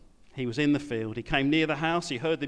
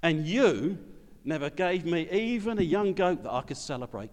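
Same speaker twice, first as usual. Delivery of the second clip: resentful son; 2 semitones higher than usual. Acted. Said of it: "Can you feel the antagonism".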